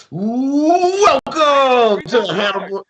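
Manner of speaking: high, slow, drawn-out show welcome; big stretched-out opening call; announcer. Real, not acted.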